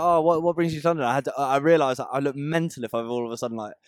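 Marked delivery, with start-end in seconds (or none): 0.0-1.1 higher, louder mock West Country accent. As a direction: make West Country small talk, hammed up. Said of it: "I started talking in a West Country accent".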